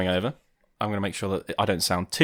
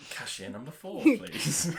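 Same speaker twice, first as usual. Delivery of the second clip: calling the next customer at a till; sing-song shop tannoy call; cashier announcement; 8 semitones higher, 4 dB quieter, slower than usual. Retold or imitated. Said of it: "That made you sound like".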